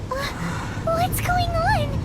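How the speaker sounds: slow, loud, bewildered question; alarmed confusion. Acted. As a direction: demand answers, bewildered. Sudden strange event.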